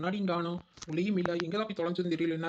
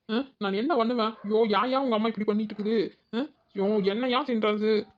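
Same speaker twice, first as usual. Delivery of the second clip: mildly wailing grievance; a touch of a hungry whine; whiny complaining. Acted. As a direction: fuss as if close to tears from hunger. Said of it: "என்னமோ அழுகுற?".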